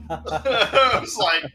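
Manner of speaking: bursting into high laughter; can't stop laughing at the clip. Real, not acted. Co-host laughing at a funny clip, high laughter.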